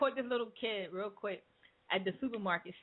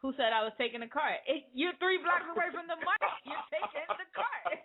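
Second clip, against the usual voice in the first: imitating the kid; 7 semitones higher than usual. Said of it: "He was like".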